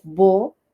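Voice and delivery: "vocabulary" broken into bo, ka, biu, lari; long gaps between the pieces of "vocabulary"; syllable by syllable. Shown as a demonstration. Teacher telling learners to use their own language, syllable by syllable. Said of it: "yo les digo".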